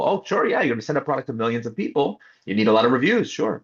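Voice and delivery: mock them by agreeing too readily; sarcastic agreement. To the team about millions of users, sarcastic mock agreement.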